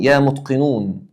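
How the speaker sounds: يا متقنون drawn out slowly; slow demo. Shown as a demonstration. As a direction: stretch the call for the class. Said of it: "آخرها واو نون". (نداء بطيء وممدود)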